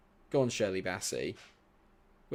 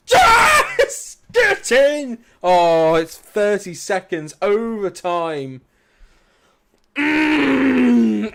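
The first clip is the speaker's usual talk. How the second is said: much higher, screaming joy; ecstatic celebration; 11 semitones higher, 13 dB louder, much slower than usual. Real, not acted. Streamer celebrating a late hat-trick goal, screaming with joy. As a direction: erupt as the goal goes in.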